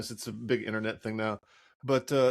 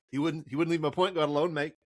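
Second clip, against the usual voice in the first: lightly put-on New Zealand accent, laid back. A podcast host mimicking Steven Adams in a lightly put-on New Zealand accent. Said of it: "muddle through a New Zealand accent".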